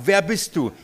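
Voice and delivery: ordinary delivery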